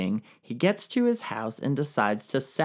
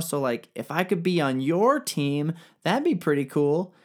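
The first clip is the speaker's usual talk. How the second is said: higher, fast, casual bragging voice; bro-ish exiled king; 4 semitones higher than usual. Retold or imitated. Exiled king brags to Darius, high and fast. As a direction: pitch yourself like a cocky dude. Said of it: "and is like".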